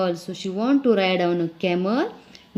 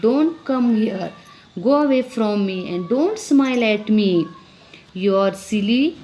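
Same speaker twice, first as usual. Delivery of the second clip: put-on angry girl. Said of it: "the girl was very angry and she said".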